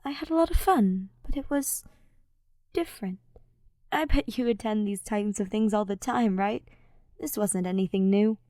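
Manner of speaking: a hint of shy Ash. Ash sober, reflective.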